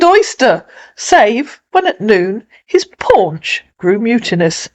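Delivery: animated, lilting storytelling verse reading; dramatic poetry reading; poem recitation. Acted. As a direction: recite the tale with lively rises on key words.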